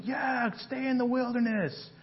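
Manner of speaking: Satan jeering at the wanderer; Satan taunting. Acted. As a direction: sneer it like the accuser. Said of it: "Satan may be yelling".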